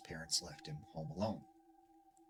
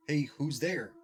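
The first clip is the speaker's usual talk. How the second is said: higher, louder call through the door; 7 semitones higher, 8 dB louder, slower than usual. Retold or imitated. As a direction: call out to someone behind the door.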